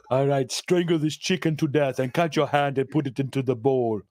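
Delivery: ominous ritual instructions; lightly voiced voodoo priest; mock mystic servant. Servant instructing a ritual, mock ominous. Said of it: "servant's ritual instructions".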